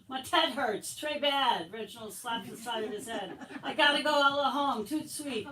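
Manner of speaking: milk the headache for laughs; hammed-up whining. Boy begging the teacher to go home, hammed-up whining.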